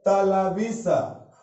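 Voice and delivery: each name drawn out slowly with pauses; slow listing for the class. Shown as a demonstration. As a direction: spell them out slowly for students. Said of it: "लिखते हैं जी?".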